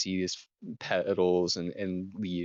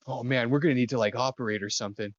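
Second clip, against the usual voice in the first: quick, pitched-up urgent healer; Theo urgent; 4 semitones higher, faster than usual. Acted. Theo asks Silica for sugar water, hurried and urgent. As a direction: rush the orders like a frantic medic. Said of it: "He's like".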